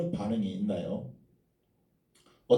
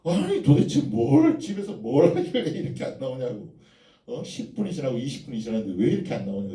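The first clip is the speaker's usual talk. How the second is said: mock angry husband; 2 semitones higher than usual. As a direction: scold the wife for taking too long. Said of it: "그럼 이제 막 화를 내죠". (아내에게 늦는다고 화내는 남편, 흉내 내듯)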